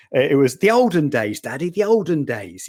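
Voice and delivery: lightly voiced child teasing Daddy; a hint of a kid saying olden days; imitating his daughters. Father quoting his daughters teasing him, light child voice. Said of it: "according to my daughters".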